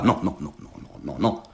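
fading to a whispered protest; feeble protest. A narrator's reading. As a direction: protest weakly, trailing off. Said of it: "protestoval soudce".

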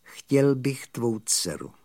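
slow, sheepish request; embarrassed. Acted. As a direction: ask it awkwardly, taking your time. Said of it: "rozpačitě přešlápl a potom řekl". (rozpačitá, pomalá prosba)

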